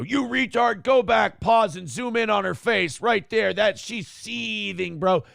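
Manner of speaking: lightly voiced excited online troll; internet person impression. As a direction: read it like a smug commenter. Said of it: "doing an impression of an internet person".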